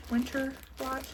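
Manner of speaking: Southern country accent on Winter white. Shown as a demonstration. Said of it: "country accent".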